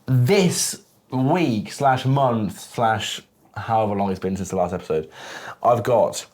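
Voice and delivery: slow, drawn-out hype introduction; podcast intro. Acted. Host announcing his guest to listeners, slow hype build.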